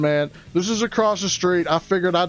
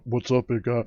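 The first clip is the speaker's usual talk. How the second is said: mock sob; 8 semitones lower, 4 dB quieter than usual. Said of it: "Hold on".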